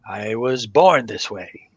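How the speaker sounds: matter-of-fact. Acted. Monk caretaker tells visitors, lightly voiced, matter-of-fact. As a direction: state it as simple fact, unbothered. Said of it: "looks at you very matter-of-factly and says".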